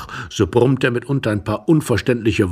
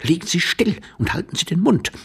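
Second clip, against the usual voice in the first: curt command; 7 semitones higher than usual. Acted. Stranger hushes him under the bed.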